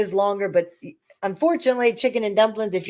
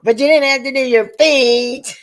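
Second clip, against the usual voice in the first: higher, louder retold protest; mock complaint; 5 semitones higher, 4 dB louder than usual. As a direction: replay an exasperated comeback. Replaying bickering with husband.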